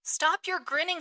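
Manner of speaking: a touch of an angry retort; mild shout. Acted. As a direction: snap at the grinning landlord. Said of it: "shouted I".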